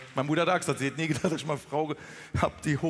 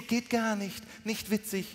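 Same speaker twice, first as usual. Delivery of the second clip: higher-pitched, precise Standard German imitation; mock Hochdeutsch wife, raised then dropping softer; wife's Standard German; 4 semitones higher, 4 dB quieter than usual. Comedian imitating his disapproving wife, higher mock Standard German. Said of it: "Meine Frau spricht Hochdeutsch".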